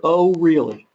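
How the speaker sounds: flat, accepting "Oh, really?"; understanding tone. Shown as a demonstration. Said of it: "That can have three different, different meanings".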